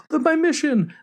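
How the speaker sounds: put-on high, awed little-girl voice; little Anya voice. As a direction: gasp and say it like a kid on a secret mission.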